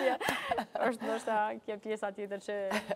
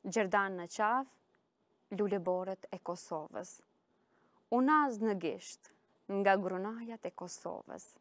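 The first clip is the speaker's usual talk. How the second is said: slow, measured poetry reading; poem recitation; slower than usual. Acted. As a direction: read the poem slowly, pausing after each line. Recites her own poem.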